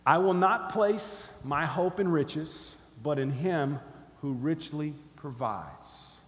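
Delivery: slow, deliberate phrase-by-phrase declaration; slow, weighty delivery for repeating back; emphatic recitation. Shown as a demonstration. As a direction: lead a congregation in a pledge, firm and measured. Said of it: "I'm gonna say it first".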